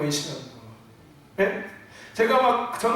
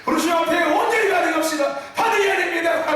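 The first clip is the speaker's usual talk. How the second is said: high, raised sermon cry; heated preaching; 7 semitones higher, 3 dB louder than usual. Shown as a demonstration. Preacher demonstrates his worked-up call to the congregation, heated shout. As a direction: push it out high and forceful. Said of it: "이렇게 말하면 되지".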